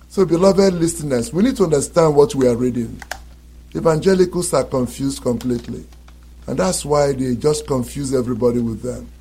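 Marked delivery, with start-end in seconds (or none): none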